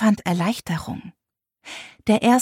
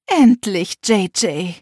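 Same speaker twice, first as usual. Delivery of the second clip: relieved sigh; 4 dB louder, slower than usual. Acted. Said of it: "meine Mutter seufzte erleichtert".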